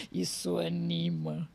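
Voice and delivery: slow, low, softened ironic repeat; dry irony. Real, not acted. Winding down a joke about harsh criticism, slow and dry. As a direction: draw it out drily after the laugh.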